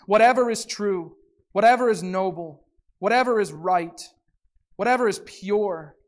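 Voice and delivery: measured, earnest reading of scripture. Acted. Pastor reads Philippians aloud to the congregation, measured and earnest. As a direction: read the passage to the congregation.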